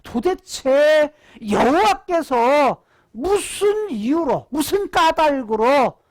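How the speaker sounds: scornful jeering. Acted. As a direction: jeer like incredulous passers-by, stretching the words. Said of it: "비웃으면서 조롱하면서 말하기를".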